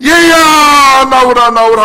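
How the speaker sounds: long urgent shout, first word stretched; frantic calling out. Acted. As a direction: call like a mother to a child in a fire. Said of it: "정신 나간 사람처럼 외치지 않습니까".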